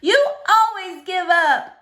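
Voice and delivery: put-on girl shouting at her father. A narrator's reading. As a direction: throw the blame right at him. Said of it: "I shouted".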